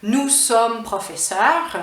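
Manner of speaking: "nous sommes professeurs" slowly, word by word; formal standard form. Shown as a demonstration. Teacher showing the form to replace, slow articulation. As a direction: spell out "nous sommes" in measured full syllables. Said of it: "au lieu de dire".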